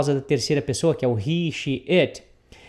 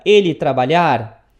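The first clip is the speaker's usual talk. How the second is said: mock literal question; 3 semitones lower, 6 dB louder than usual. Shown as a demonstration. Teacher models question word order.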